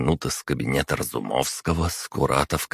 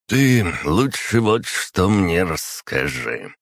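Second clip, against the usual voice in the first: put-on slow, slightly slurred drunken speech; tongue a little thick with drink; 4 semitones higher, slower than usual. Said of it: "слегка заплетающимся языком".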